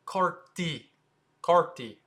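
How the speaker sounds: Carti as two syllables, KART-ee; French pronunciation. Shown as a demonstration. Teacher models it for viewers, French pronunciation. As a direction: cut Carti short after tee. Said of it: "the correct way to say it".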